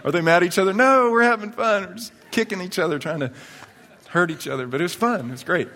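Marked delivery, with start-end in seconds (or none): 0.0-0.7 fast, higher mock kid worry; lightly voiced startled kids; kids' voices. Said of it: "the kids are going". 0.7-4.7 much higher, cheery mock innocence; high playful protest; gleeful reply. His reply to the kids.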